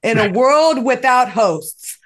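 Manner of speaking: slow dramatic trailer announcer; movie trailer voice. Pretend. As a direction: boom it like a film trailer. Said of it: "the movie trailer voice that's telling what's coming up".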